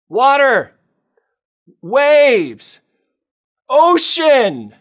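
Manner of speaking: each word called out loud and high; alarmed high calls, one by one; alarmed cry. Acted. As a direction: shout each with rising panic. Peter sees the sea below.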